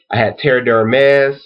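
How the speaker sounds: slow, measured list with long pauses; deliberate roll call, one name at a time; slow repeat. Real, not acted. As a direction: read each item out slowly, pitch lifting. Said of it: "let me repeat it slowly".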